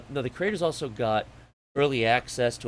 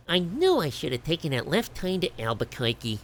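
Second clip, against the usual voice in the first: Bugs Bunny voice; 4 semitones higher than usual. Acted. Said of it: "Like Bugs Bunny".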